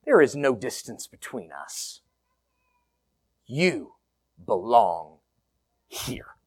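soft, tender welcome fading to a whisper on here; gentle invitation. Acted. Pastor softly welcoming a stranger into the group, tender. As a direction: offer it like an open door. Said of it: "and to say".

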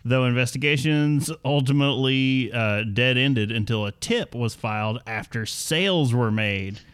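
scripted story read with lively swooping emphasis; news read. Acted. Host reading the bourbon theft story to co-hosts, news read. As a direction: read it out like a podcast news segment.

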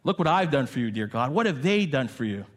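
mildly voiced prideful complaint to God; a hint of self-righteous boasting; imitating a proud believer's prayer. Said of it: "this prideful attitude that says".

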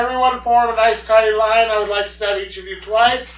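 polite, projected bad British accent; badly faked British accent, marshalling a queue; terrible British accent. Stabber politely lining up victims, terrible British accent. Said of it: "That's a terrible British accent".

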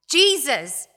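loudly called name, falling off; loud cry. Acted. Possessed man addresses Jesus, loud cry. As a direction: call out the name with force. Possessed man's words, quoted again.

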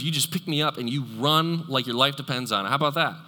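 a hammed-up self-pitying lament; whiny invalid. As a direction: plead like a stuck, helpless man. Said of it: "they're going".

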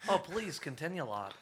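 lightly voiced Irish priest; mock Belfast accent. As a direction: invite him on in a comic brogue. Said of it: "straight from Belfast".

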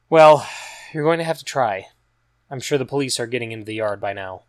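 sudden loud well, then lightly voiced urging; a hint of urgency in a young woman's voice; Regina firm. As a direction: press him to try. Regina urges quiet.

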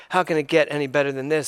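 sarcastic. Retold or imitated.

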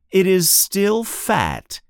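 plain reading voice

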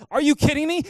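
high, loud shocked cry; shocked disbelief. Retold or imitated. To his friend on the phone, loud shocked disbelief. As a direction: hit it like the floor just dropped.

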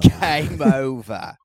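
laughing echo of "Game over". Acted. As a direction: repeat it through a laugh. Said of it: "repeated, laughing".

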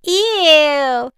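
put-on high, loud grossed-out kid; disgusted holler. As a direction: yell in disgust. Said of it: "Susie and little Johnny hollered".

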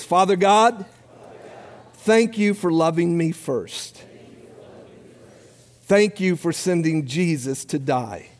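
short phrases with long pauses; slow led prayer. Real, not acted. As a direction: lead a congregation in prayer, leaving room to repeat. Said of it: "I'll pray it slow".

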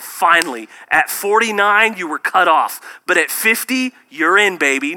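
loud, high, hammed-up announcement; mock game-show Jesus. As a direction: play a cheesy scorekeeper Jesus. Mock Jesus keeping score.

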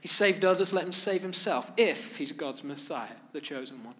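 a loud, jeering sneer from the crowd. Retold or imitated. Rulers jeering at the crucified Jesus, loud mocking sneer. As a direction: spit the words out in scorn. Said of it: "the rulers even sneered at him".

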